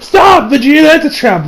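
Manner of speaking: high yelled warning; Beerus. Retold or imitated. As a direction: shout to halt a friend. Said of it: "with Beerus yelling".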